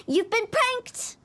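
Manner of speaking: slow, gleeful gotcha; prank reveal. Acted. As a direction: drag out the reveal with glee. Hu Tao reveals her prank.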